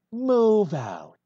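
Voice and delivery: loud commanding call; shouted order. Acted. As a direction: bark the order to the squad. Commander orders bees to move.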